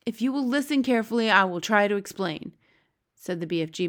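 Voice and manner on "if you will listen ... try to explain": lightly voiced giant, lively and a bit brisk; a hint of a patient-explainer giant; Big Friendly Giant. Giant explaining to Sophie, lightly voiced.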